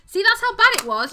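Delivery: loud, high, laughing protest; giggly outburst at your own mistake; laughing exclamation. Real, not acted. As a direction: exclaim it through helpless laughter. Laughing at own failed pronunciation.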